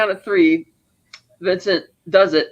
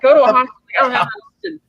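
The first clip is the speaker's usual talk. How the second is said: higher-pitched mock yell; retold screaming; 7 semitones higher, 3 dB louder, much faster than usual. Retelling a panicked phone call about an overdose, mock screaming. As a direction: act out someone screaming down the phone, lightly. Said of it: "he's, like, screaming about it".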